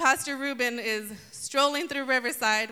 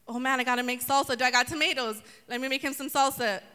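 excited hostess; faster than usual. Pretend. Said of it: "She's so excited".

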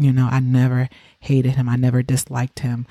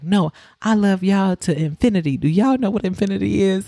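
lightly voiced dad, pitched higher; playful dad quizzing his kids, higher; imitating dad; 6 semitones higher than usual. Dad's love speech retold.

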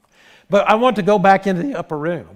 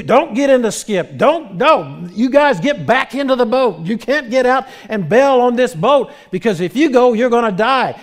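raised, higher urgent plea; pleading shout to stay aboard; urgent warning; 5 semitones higher than usual. Acted. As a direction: warn them they will die if they go. Paul warning sailors to stay.

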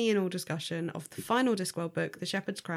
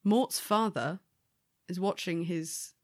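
spiteful glee; slower than usual. Real, not acted. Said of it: "saying this in a more spiteful tone".

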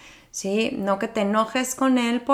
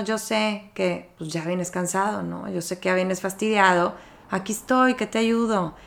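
tender reassurance; 3 dB quieter than usual. Shown as a demonstration. A parent gently comforting a tired child home from school, tender and soft. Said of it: "el decir con ese gesto".

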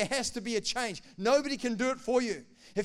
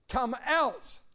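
raised, commanding call; loud voice; 3 semitones higher than usual. Acted. Preacher voicing Jesus calling Lazarus from the cave, loud voice. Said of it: "with a loud voice".

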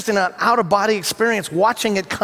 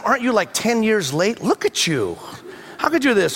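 mean trainer; 2 semitones higher than usual. Retold or imitated. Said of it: "he's just so mean to them".

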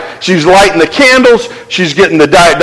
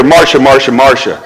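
lightly voiced Brady-style Marcia Marcia Marcia; a playful nod to the sitcom line; mock TV sibling whine; 7 semitones lower than usual. Preacher jokes Jesus sounds like the TV sibling, lightly voiced. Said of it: "He could put in here".

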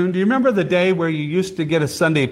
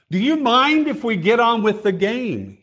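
mildly exasperated, a bit higher; exasperated yell; 6 semitones higher than usual. Retold or imitated. Charlie Brown snaps at his team, mild mock exasperation. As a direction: play an annoyed pitcher who wants the game going. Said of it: "exasperated, cries out".

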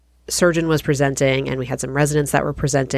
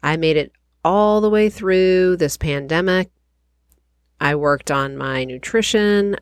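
stuffy nasal voice from covid; nasal, recovering from a cold. Real, not acted. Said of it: "excuse my nasally voice".

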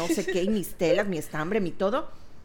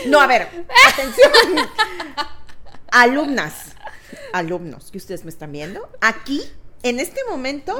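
mock teacher; 3 semitones higher, 6 dB louder than usual. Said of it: "yo me transformo, o sea, esto es un personaje".

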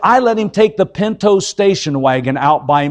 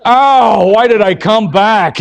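louder mock groan of regret; imitated dismayed audience member; regretful listener; 3 semitones higher, 4 dB louder, slower than usual. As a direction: groan it like a poor victim. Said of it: "this poor guy's going".

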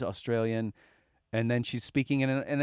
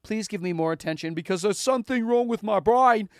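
loud, high fake Australian plea; over-the-top Australian accent, slowing at the end; mock foreign accent; 10 semitones higher, 7 dB louder than usual. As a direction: plead in a hammed-up Aussie accent. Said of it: "foreign accent syndrome".

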